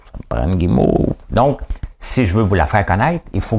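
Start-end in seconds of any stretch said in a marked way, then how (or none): 0.0-1.1 mock craving, exaggerated. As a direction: play up the craving, stretching "guimauve". Repeats the imagined craving, drawn out.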